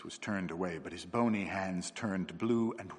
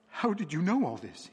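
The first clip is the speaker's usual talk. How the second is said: cried out; 7 semitones higher than usual. A narrator's reading. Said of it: "he cried".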